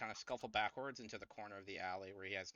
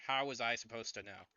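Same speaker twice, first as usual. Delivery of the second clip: mild mock yell; mock scream. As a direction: protest loudly but hold the scream back. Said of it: "He starts screaming louder".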